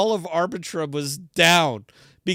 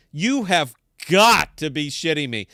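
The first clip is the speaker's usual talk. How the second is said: frustrated outburst; 5 dB louder than usual. Real, not acted. Rant frustration.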